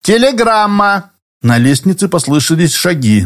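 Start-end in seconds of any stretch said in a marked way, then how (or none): 0.0-1.1 calling out. A narrator's reading. Messenger calling through the door.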